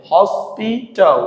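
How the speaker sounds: "হসপিটাল" slowly as hos, pi, tal; split into syllables. Shown as a demonstration. Teacher giving a three-syllable example, "হসপিটাল" slowly split hos, pi, tal. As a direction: pause between the syllables of "হসপিটাল". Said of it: "তিনটি অংশ থাকে".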